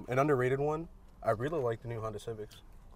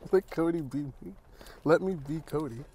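laughing; 4 semitones higher than usual. Acted. Teasing friend's misspoken phrase.

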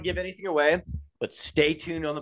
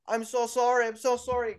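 a lightly voiced, higher and softer apology to Conor; apologetic driver; 7 semitones higher, 5 dB quieter than usual. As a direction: play the flustered driver who just hit him, a little higher. Driver apologizing after hitting Conor.

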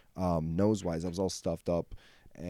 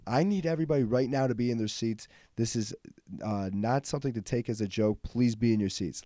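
a flight attendant's firm announcement, a touch raised; stern announcement; 4 semitones higher than usual. Retold or imitated. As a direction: order the cabin into their seats, no joking. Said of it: "announces it like that, stern, forceful".

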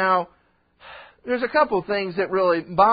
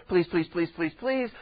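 quick string of soft pleases; understated rapid-fire pleading; earnest begging; 2 semitones lower, 3 dB quieter than usual. Retold or imitated. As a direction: lightly mimic insistent begging. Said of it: "they begged him earnestly".

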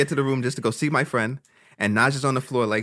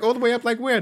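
retold clueless surprise; 11 semitones higher than usual. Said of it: "And I'm like".

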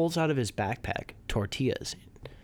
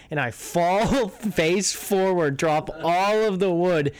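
laughing; 5 semitones higher, 4 dB louder, slower than usual. Real, not acted. Laughing while retelling the fall.

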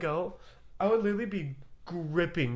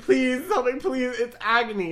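mock pleading; 9 semitones higher, 8 dB louder than usual. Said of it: "I'll be like".

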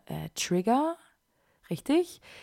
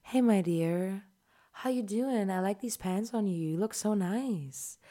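ASMR roleplay. Retold or imitated. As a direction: imitate an ASMR creator cooing to the viewer. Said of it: "und ist so".

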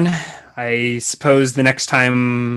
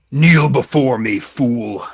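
commanding villain, a touch louder; cold rasping evil emperor; 5 dB louder, slower than usual. Acted. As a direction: loom over them like a tyrant. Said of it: "I respond in Hobgoblin".

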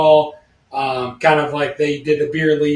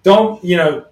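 stern referee; 3 semitones higher, 4 dB louder, slower than usual. Retold or imitated. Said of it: "the referee would be like".

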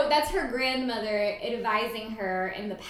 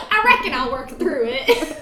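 quoting the line through laughter; mocking the line with a laugh; laughing mock twang; 3 semitones higher, 7 dB louder than usual. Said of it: "And that's what she says?".

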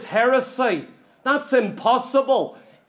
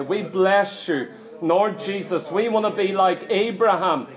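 closing prayer. Acted. Preacher leading the congregation in prayer, building fervour. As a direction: pray over the church with growing fervour.

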